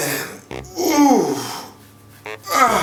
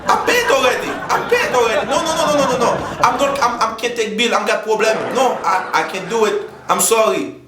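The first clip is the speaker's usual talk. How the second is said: flustered laughing excuse; 5 semitones higher than usual. Acted. Flustered high laughing phone excuse.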